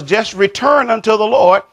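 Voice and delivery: emphatic, high-pitched push on "return"; stress on return. Shown as a demonstration. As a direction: urge it, leaning on the word "return". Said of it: "the emphasis is".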